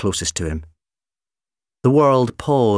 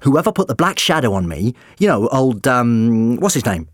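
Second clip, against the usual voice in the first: high flustered doctor; 3 semitones higher, 5 dB louder than usual. Acted. Doctor fumbling for a name.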